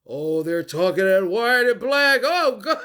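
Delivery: loud hammed-up complaint rising into a laugh; mock reaction. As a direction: build it up until you crack up. Acts out own mock reaction.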